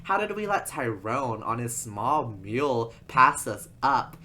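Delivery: retold disbelief from overtaken rivals; baffled. Two racers passed by a small mule, mock baffled outcry. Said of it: "completely baffled".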